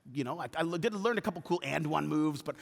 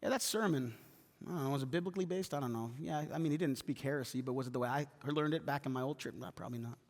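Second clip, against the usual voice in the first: muttering critic; 5 semitones lower, 10 dB quieter than usual. Retold or imitated. Churchgoer judging from sidelines.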